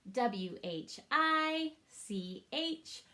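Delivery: each letter said slowly and evenly; slow letter tapping. Shown as a demonstration. Teacher arm-tapping letters with students, slow and even. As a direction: tap out every letter slowly. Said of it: "Let's arm tap that".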